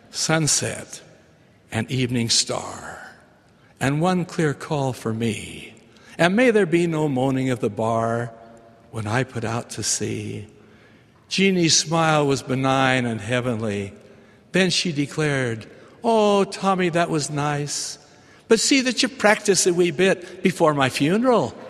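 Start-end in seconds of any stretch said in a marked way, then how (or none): 0.1-10.5 poem recital. Acted. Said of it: "I took a deep breath and began". 16.0-21.6 high Scottish brogue, pleased then teasing; lightly voiced old Scottish woman; broad Scottish accent. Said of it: "with her thick Scottish brogue".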